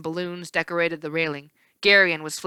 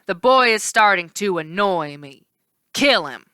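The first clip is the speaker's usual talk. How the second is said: cold villain order; 4 dB louder than usual. Acted. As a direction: order the kill coldly.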